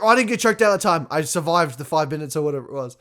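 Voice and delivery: mock relief. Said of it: "It's like".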